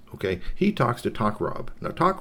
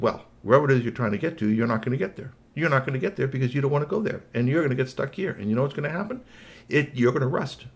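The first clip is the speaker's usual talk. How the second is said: lightly voiced toy, somewhat higher and quick; a hint of a know-it-all threat; warning Squeaky Toy; 6 semitones higher, faster than usual. Toy warning the boss he will rust, lightly taunting.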